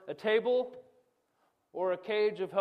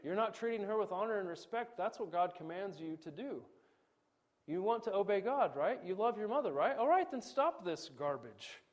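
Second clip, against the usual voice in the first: a father's rational scolding, a bit raised at first; calm rebuke; 3 semitones higher than usual. Retold or imitated. Father to kids disrespecting mom, calm firm scolding. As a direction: reason firmly with the kids. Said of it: "I can say".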